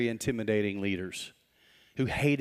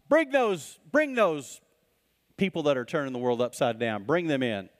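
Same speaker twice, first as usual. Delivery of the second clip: commanding order. Acted. High priest ordering guards.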